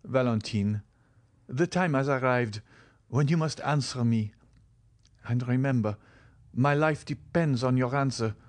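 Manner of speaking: lightly voiced earnest young lover; Morrel, urgent. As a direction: press for an answer, building in pitch. Morrel presses Valentine for an answer.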